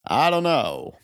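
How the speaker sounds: high-pitched mock questioning; movie dialogue. Co-host retelling the Shawshank joke about Red, high mock-dialogue voice. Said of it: "So they're like".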